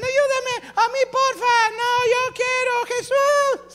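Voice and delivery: very high, loud pleading shout; crowd clamor. Acted. Multitudes all cry to Jesus, high shouting. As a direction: scream for attention over everyone. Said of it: "Todos gritaban".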